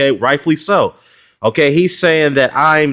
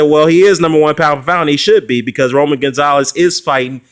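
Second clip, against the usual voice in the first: emphatic retold reply; 3 semitones higher than usual. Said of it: "and I said".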